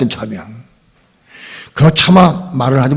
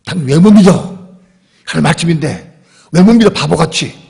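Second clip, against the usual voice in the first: loud, sharp rebuke, louder than his talk; angry scolding; 3 semitones higher, 5 dB louder than usual. Retold or imitated. Abraham berating Sarah for doubting God, loud angry scolding. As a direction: scold her hard for not believing. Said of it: "막 따지고 막 야단치고".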